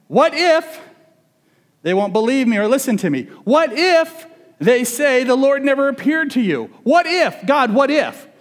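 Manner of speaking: high, pleading what-ifs; anxious Moses. Retold or imitated. Moses pleading with God, high and anxious. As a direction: protest nervously to God, voice up high.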